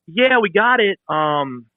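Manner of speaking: mock a sheepish, stammering company reply; hesitant company rep. Retelling the company's awkward phone reply.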